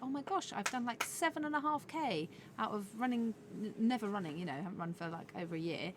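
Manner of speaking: high, amazed rush of words; excited self-quote. Retold or imitated. Telling a friend about her first long run, excitedly. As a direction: relive the thrill of the run. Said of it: "I was like".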